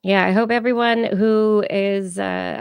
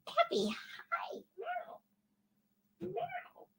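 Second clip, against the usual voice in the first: very high, soft meows to the cat; cat talk; 15 dB quieter, much slower than usual. Acted. Host greeting her cat Cappy, high soft meows. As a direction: coo up high at the kitty.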